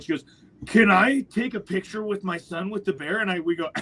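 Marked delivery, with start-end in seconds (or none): 0.7-3.2 high-pitched imitation of an excited mom; eager mother. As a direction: ask eagerly, high, mimicking the woman. Excited mother asks hunters for photo.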